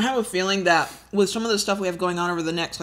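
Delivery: talking around an ice cube; fast, with ice in the mouth. Real, not acted. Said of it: "got an ice cube in my mouth".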